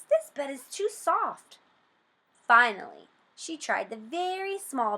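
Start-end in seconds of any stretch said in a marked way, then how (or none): 0.0-1.6 put-on higher, fussy little-girl voice; complaining. A narrator's reading. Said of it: "said Goldilocks".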